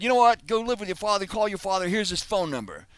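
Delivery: high mock Australian, quoting a mother; hammed-up Aussie telling-off in falling phrases; bad Crocodile Dundee accent. The speaker quotes his mom sending him off, bad Australian accent. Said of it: "this is my very bad Crocodile Dundee impression".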